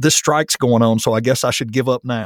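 normal talking voice

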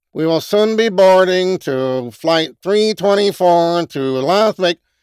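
mock public address announcement. Mocking how a message sounds to listeners, in a New Jersey turnpike announcement voice. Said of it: "it sounds like a New Jersey, you know, turnpike announcement".

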